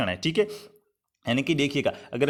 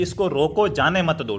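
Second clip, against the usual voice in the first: इसको रोको, then a break before जाने मत दो; two separate orders, split after रोको; pause after रोको. Shown as a demonstration. Teacher spelling out the order to stop someone, pause after रोको. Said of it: "रोकने का कह रहा है".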